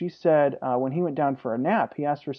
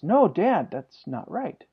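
lightly voiced child correcting dad, pitched up then dropping; son objecting; 3 semitones higher, slower than usual. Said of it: "when I get to the end, he says".

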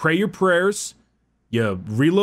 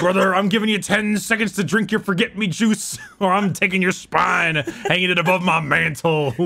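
wrestling promo. Acted. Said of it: "This has turned into a wrestling promo".

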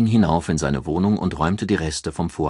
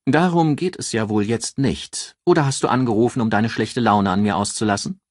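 higher, brisk female voice on the phone; a lightly raised voice for a sharp, self-assured friend; higher voiced Ann, matter-of-fact; Ann, brisk businesswoman; 5 semitones higher, 4 dB louder than usual. Ann's voice, irritated.

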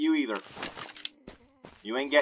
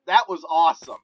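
pleased, a little louder than usual; contained excitement; 5 dB louder than usual. Real, not acted. Player recapping the headshots, contained excitement. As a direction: still thrilled, but without the yelling. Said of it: "I am just so excited".

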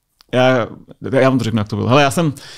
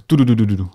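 imitated staggered thuds; 3 semitones lower than usual. Recruit showing how the bags hit the ground, staggered thud imitation. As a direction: run of short "du" syllables, one per bag. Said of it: "A jak jsme tam pokládali, že tak to bylo".

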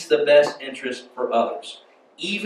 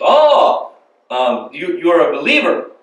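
bad Egyptian accent; 6 dB louder, slower than usual. Egyptian man learns visitor is a believer, bad Egyptian accent. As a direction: react in a badly faked Egyptian accent. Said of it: "That's a really bad Egyptian accent".

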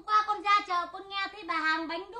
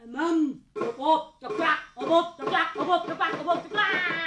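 nhại tiếng kêu bộp bộp chọc chọc, to và nhịp nhàng; đọc như tiếng ếch kêu ngoài ruộng; 5 dB louder than usual. Pretend. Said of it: "Lầy thế này á". (giả tiếng ếch kêu ầm ĩ)

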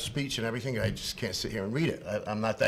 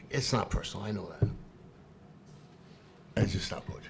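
drained whisper; 4 semitones lower, 7 dB quieter than usual. Real, not acted. After outburst, drained.

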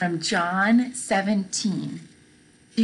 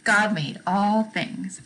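steady slow unison recital. Shown as a demonstration. Teacher reciting the answer along with children. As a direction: say it together slowly. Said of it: "Say it with me".

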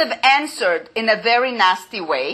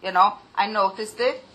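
without annoyance. Shown as a demonstration. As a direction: point it out lightly, without hostility. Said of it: "without ... your own annoyance, just".

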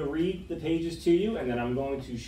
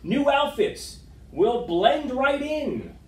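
much higher, drawn-out delighted exclaim; excited idea; 9 semitones higher, 5 dB louder, slower than usual. Acted. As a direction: sell the fabulous plan slowly and gleefully. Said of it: "came up with a fabulous new idea".

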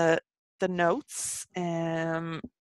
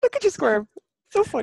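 teasing laugh; 10 semitones higher, 5 dB louder than usual. Real, not acted. Teasing friend who is blushing.

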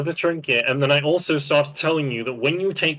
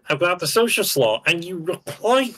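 higher-pitched, insistent reminder; exasperated scolding; 4 semitones higher than usual. Real, not acted. Player finishing a reprimand, exasperated scolding. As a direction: keep scolding with raised pitch. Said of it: "Stop yelling at me".

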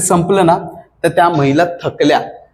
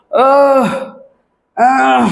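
drawn-out, worn-out "uhh"; weary high groan, as if spent; tired yell; 8 semitones higher than usual. Shown as a demonstration. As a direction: demonstrate a feeble, exhausted runner's cry. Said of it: "असं थकल्यासारखे जर ओरडले".

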